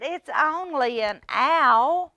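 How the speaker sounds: lightly voiced big mouse calming a small one; reassuring Big Mouse. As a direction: soothe a scared little one. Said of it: "He said".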